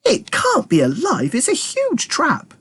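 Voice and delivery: high, slow, shaken; alarmed Militia. Acted. Militia staring at the trap, slow and alarmed. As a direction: stretch it out in disbelief. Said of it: "said Militia".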